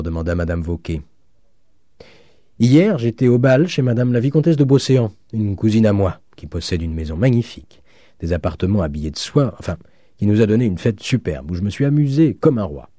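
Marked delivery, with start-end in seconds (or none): 2.6-12.9 higher, animated student voice; boastful, lively account of a party; enthusiastic student. Acted. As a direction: relive last night's splendid ball. Student tells of the ball.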